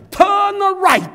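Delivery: loud, high British GPS voice, crisp "Turn right"; British accent. Retold or imitated. Old GPS giving the driver directions, British accent. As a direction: imitate a British satnav, loud and exaggerated. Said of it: "영국 액센트한데".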